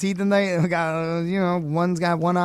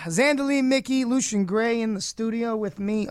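lively DJ roll call; radio announcer; 6 semitones higher than usual. Acted. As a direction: announce the guests like a host. Host introduces studio guests.

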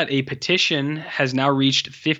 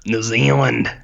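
New Zealand accent; slower than usual. Shown as a demonstration. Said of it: "Was that the same twice".

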